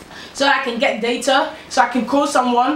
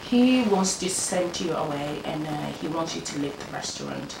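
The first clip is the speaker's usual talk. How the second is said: softer, lower imitation of a manager; retold hushed news; 6 semitones lower, 8 dB quieter than usual. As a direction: break bad news quietly, fading away. Manager breaks bad news to employee.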